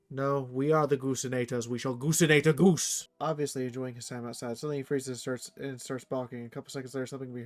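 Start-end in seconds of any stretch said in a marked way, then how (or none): 0.1-3.1 loud mock-heroic battle cry; loud comic goose-hunter proclamation; hammed-up hype. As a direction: puff up like a hunting hero.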